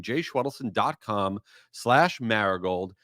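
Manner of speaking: spelling out a web address for listeners, slow and careful; slow, clear spelling out. Shown as a demonstration. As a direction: dictate the address slowly, word by word. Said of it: "That's my full name".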